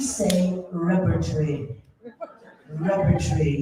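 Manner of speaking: authentic English accent. Shown as a demonstration. Mock tutor demonstrates London English, English accent. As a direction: say "repertory" in clipped English, the ending swallowed. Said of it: "authentic English accent".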